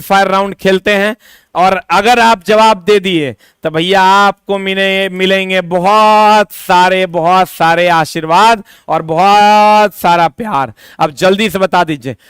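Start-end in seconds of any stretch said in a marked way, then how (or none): 1.5-10.7 drawn-out promise. Real, not acted. Teacher promises blessings to students.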